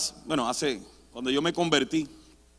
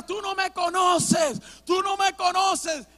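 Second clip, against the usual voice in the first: high, drawn-out mock yell, held back in volume; retold yelling; 6 semitones higher, slower than usual. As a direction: imitate shouting without full volume. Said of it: "yo seguía gritando". (grito recreado, agudo y alargado)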